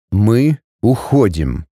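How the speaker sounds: low, slow man, each word separate; clipped cold command. Acted. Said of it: "Отчеканив каждое слово".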